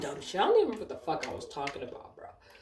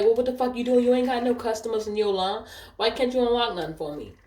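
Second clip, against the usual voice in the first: acted pushy griping, pitched up; imitating complaining customer; 6 semitones higher than usual. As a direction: mimic a customer demanding service. Retold customer complains about service.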